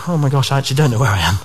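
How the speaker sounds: quick, flustered oh-my-gosh; mock panic at being lost; sudden realisation. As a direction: blurt it out fast like you just realised you're lost. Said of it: "And then you go".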